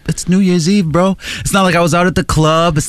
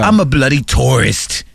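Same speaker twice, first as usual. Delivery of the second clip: British tourist; 4 semitones lower than usual. Retold or imitated. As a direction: lower mock British accent. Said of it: "like, Australian accents".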